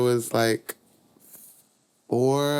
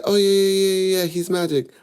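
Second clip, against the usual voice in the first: much higher, hurried mom stalling; flustered mom; 9 semitones higher, 5 dB louder than usual. Retold or imitated. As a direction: bluff your way through like a caught-out mother. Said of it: "She said".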